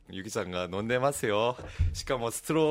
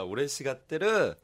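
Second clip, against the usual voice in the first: laughing; 4 semitones higher, 7 dB louder than usual. Real, not acted. Laughing while talking.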